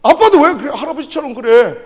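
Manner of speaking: high, loud scolding of dad; angry shouting. Retold or imitated. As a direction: re-enact a son's exasperated yell. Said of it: "내가 막 화가 나는".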